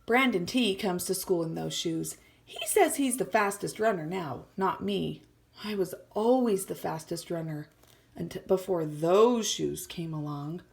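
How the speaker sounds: reading a picture book aloud to the class; story reading. A narrator's reading. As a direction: read it like a storybook for kids. Teacher reads story aloud.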